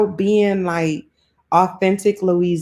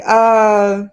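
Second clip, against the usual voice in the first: straight New Orleans telling-off; a playful show of annoyance, laying down a warning; mock mad; 2 semitones higher than usual. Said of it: "'Cause when I'm mad, I be like".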